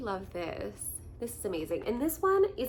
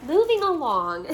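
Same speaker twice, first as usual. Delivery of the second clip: brisk laugh-off; 7 semitones higher, 9 dB louder than usual. Real, not acted. Snapping out of the emotion.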